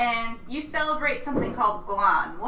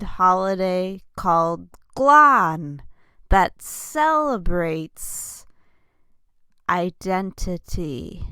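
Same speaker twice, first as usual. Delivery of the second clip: lowest register; 3 semitones lower, 4 dB louder than usual. Acted. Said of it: "I'm gonna stop talking in my lowest register".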